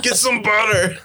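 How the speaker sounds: high, laughing pretend holler; mock call out. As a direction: call back for supplies through laughter. Joins in yelling back for supplies.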